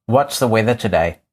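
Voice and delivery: talking to voice assistant. Real, not acted. Asks the smart speaker.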